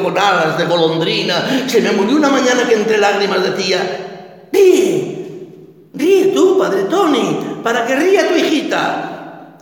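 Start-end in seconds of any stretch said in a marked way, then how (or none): 4.5-9.6 put-on a child begging her father to laugh; dying girl pleading. Dying daughter urging clown father to laugh, high pleading child.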